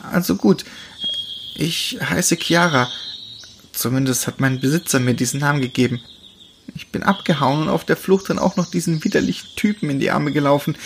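frightened runaway telling her story; young she-wolf. Acted. Chiara voiced higher.

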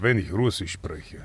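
low, slow Russian accent; menacing Russian-accented German. Shown as a demonstration. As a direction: play a Russian heavy speaking German. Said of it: "wie sprichst du mit russischem Akzent?".

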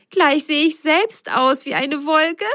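high, playful little voice; amused sock girl. Acted. Biene still giggling. (verspielt und hoch)

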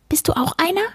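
high little creature, curious; small animal voice, questioning; furry book-eater. A narrator's reading. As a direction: ask it as a squeaky furball. Furry creature asks the boy.

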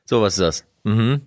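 low, unmoved imitation of a doctor; deadpan chief doctor. Chief doctor inspecting the swollen foot, imitated deadpan. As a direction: lightly play the unimpressed physician. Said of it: "keine Mime verzogen".

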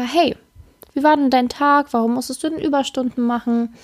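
light, pleasant check-in; casual and calm. Shown as a demonstration. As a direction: ask it easy, without reproach. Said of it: "ganz sachlich und locker".

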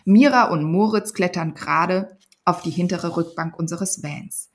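put-on lively read-aloud narration of a children's book; story reading. Author reading her Panda book excerpt aloud, storytelling voice. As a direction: tell it like a bedtime story to kids.

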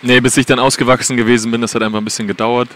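speaking up over hall noise; to someone hard of hearing. Real, not acted. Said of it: "du musst lauter reden".

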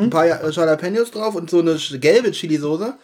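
straining through spicy heat; tense, mouth on fire from chili; mouth burning from spicy food. Real, not acted. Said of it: "Weil du ganz verkrampft da sitzt".

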